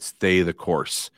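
slow and deliberate, each word weighed; slow, deliberate "Stay the course"; slow advice. Retold or imitated. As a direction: lay it down slowly like firm counsel. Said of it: "I would've just said".

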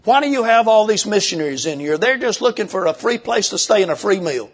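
high, whiny put-on voice of grumbling members; mocking complaining church members. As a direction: sneer it like a petty church member. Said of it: "they came to him and said".

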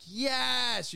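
a quick high cheer; excited yes. Retold or imitated. With the crowd when the lights dim, an excited high cheer.

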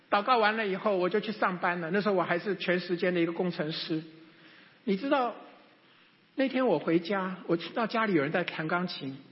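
normal talking voice

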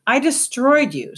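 high gloating triumph; gleeful. Acted. Solvet gloating at the rat with glee. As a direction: crow over the beaten foe. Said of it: "said Solvet with glee".

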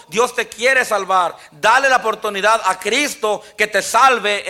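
emphatic, driving sermon delivery; preaching. Real, not acted. Preacher urging listeners at church and online to be saved, preaching earnestly. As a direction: preach it with ringing phrases and pauses.

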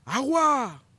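high, slow, loud yell of each word; taunting shout. Retold or imitated. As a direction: drag the words out to mock him. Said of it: "la misma persona le grita". (grito burlón lento)

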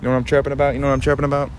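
hammed-up Boston local. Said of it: "You get the Boston voice".

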